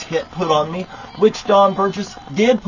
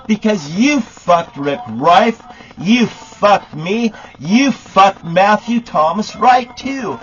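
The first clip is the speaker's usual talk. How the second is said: angry accusation; 4 semitones higher, 3 dB louder, slower than usual. Real, not acted. Rant against the sheriff.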